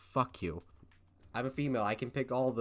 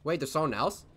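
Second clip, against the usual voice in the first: lightly voiced startled girl; 3 semitones higher, 5 dB louder than usual. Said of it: "I'll go with female voice".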